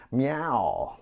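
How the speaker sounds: a cat's meow in an American accent. Shown as a demonstration. Host demonstrating cat accents, American-accented meow. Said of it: "That would be American".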